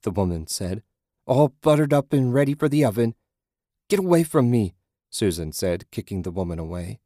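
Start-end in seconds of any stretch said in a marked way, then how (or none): 1.2-3.1 creepy hungry hag. A narrator's reading. Naked woman sniffing Susan. 3.9-4.7 panicked cry. A narrator's reading. Susan kicking the woman away.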